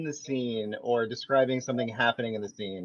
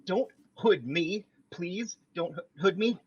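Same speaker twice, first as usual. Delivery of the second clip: mock plea; 5 semitones higher than usual. Begging not to be hooded.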